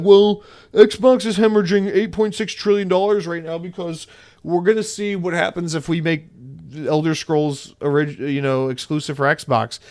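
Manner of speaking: mock corporate spokesman voice; exec addressing investors. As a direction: play an executive hedging to investors. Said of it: "go to investors and be like".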